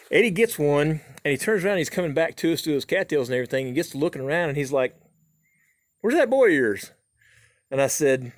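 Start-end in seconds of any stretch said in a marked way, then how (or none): 6.0-6.9 mock puzzled buddy. Eddie looking around for Hayes.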